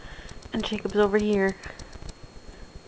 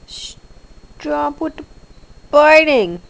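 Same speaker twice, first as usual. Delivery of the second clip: slow, then loud on biting; drawn-out scolding; 4 semitones higher, 9 dB louder, much slower than usual. Real, not acted. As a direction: stretch it out, then snap the last word. Scolding biting pet again.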